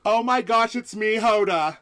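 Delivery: high, loud gushing TV host; Hoda impression. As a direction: gush like a bubbly morning show host. The speaker voices Hoda Kotb.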